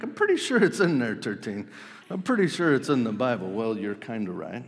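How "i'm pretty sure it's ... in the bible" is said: high, fast, mock-insistent listener; doubtful congregant. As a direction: play a churchgoer sure it's in the Bible. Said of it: "many of you are like".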